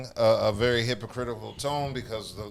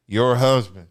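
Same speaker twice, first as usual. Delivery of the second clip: imitating her disdain, louder than usual; 6 dB louder than usual. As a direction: throw it out as a disdainful quote. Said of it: "said that with disdain".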